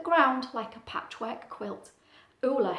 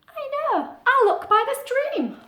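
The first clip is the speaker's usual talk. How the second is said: Ula; 13 semitones higher, 6 dB louder than usual. Acted. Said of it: "thought Ula".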